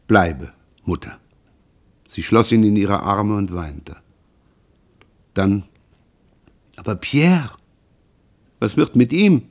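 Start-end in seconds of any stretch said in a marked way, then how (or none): 0.1-1.2 gentle voice. Acted. Son asks his mother to stay, gently. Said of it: "antwortete mit sanfter Stimme". 6.8-9.4 worried, higher-pitched mother; anxious question. Acted. Mother asks son about his brother, anxiously.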